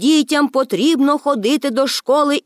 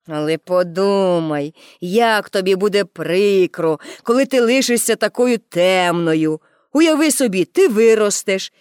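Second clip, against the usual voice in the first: measured grown-up warning, slightly lowered; lightly voiced policeman; 2 semitones lower than usual. (розважливий голос поліцая)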